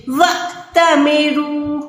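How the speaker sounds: وَأْتَمِرُوا with a sharp stop on the hamza; slow recitation with a jerked hamza; glottal jerk. Shown as a demonstration. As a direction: catch the throat on أْ in وَأْتَمِرُوا. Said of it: "اس حمزہ پہ جھٹکا دینا ہے".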